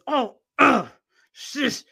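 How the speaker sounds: dismissive shush. Retold or imitated. Lady dismisses her again.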